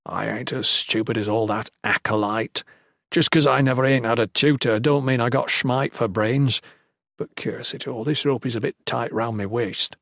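uneducated cleric, mildly offended; a hint of rough-spoken old hand; lightly voiced Salem. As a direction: grumble in light rustic dialect. Voices Salem in narrated story.

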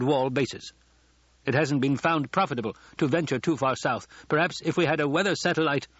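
hint of an informed guest speaking up; Kynes the expert.

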